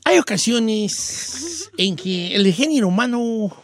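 slow, drawn-out pronouncement; phrase it like a lofty maxim, slowly; mock-refined speech. Shown as a demonstration. Host answers with pretty words, mock-refined. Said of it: "te lo voy a decir con palabras bonitas".

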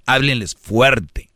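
"háblenles fuerte" said slowly, each word weighed; slow deliberate emphasis on "háblenles fuerte"; slow emphatic advice. Shown as a demonstration. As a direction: drag out "háblenles fuerte" to drive it home.

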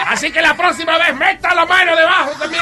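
laughing sermon. Acted. Pastor hands down penance, laughing.

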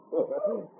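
short amused chuckle; a brief laugh to yourself. Acted. Scotty chuckles at eager boy.

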